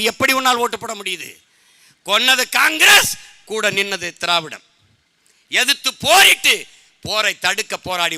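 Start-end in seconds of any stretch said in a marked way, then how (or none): 2.0-3.2 raised, louder and slowed, stressing Congress; forceful shout. Real, not acted. Fiery rally speech accusation. 5.5-6.7 higher, louder and slow; rally shout. Real, not acted. Fiery rally speech boast.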